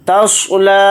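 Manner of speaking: تصلی with a full, heavy sad; slow demo word. Shown as a demonstration. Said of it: "صاد کو یہاں پر موٹا یعنی پر پڑھیں گے".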